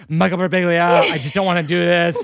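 a touch of reluctant, overwhelmed intern; nervous intern. Acted. Old laptop protesting to its owner, mildly distressed. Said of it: "having a nervous breakdown like an intern".

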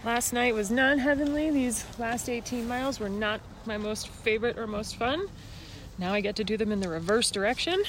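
hoarse and worn out; raspy whisper. Real, not acted. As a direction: speak through a dusty, spent voice. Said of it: "I no longer have a voice".

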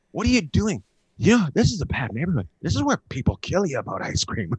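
high, loud wife's protest; alarmed scolding. Retold or imitated. Wife warning husband about a bad neighborhood, alarmed scolding.

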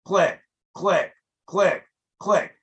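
click, click, click, click repeated evenly like a shutter; mimicking camera clicks. Shown as a demonstration. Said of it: "it just click".

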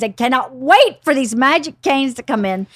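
eager, impatient quote of an excited dad; retold bubbling anticipation. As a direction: punch it with impatient glee. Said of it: "He was so excited".

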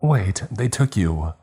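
a lightly voiced shriek of disbelief; mild shriek. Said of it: "A girl shrieked".

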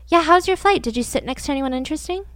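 mock-casual chatty switch; sudden casual friendliness. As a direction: toss it off like polite small talk. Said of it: "he just, like, snapped out of it".

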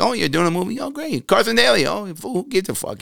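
imitating an uninterested host; bored talk show host. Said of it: "you're talking to somebody".

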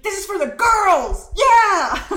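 high, drawn-out hype yell; rallying shout. Acted. Cheering on a show for girls, rallying shout. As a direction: whoop it loud for the girls.

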